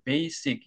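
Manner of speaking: 베이식 falling from first syllable to second; falling stress. Shown as a demonstration. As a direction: drop the pitch on the 식 of 베이식. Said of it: "떨어질 때도 이 발성을".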